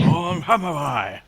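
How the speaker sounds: laughing out Lone Samurai loud and slow. Retold or imitated. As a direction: cackle through Lone Samurai. Mocks the AI's mispronunciation.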